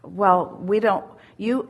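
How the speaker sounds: ordinary delivery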